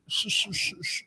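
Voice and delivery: whistling s through a gap; s sounds whistle through teeth. Real, not acted. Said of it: "I've got a hole in my teeth".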